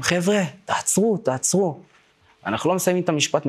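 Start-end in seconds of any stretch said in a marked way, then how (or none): 0.0-1.8 retold call-out. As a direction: imitate calling out to stop someone, volume held back. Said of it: "אנחנו מתחילים לצעוק להם". (חיקוי קריאה בצעקה מאופקת)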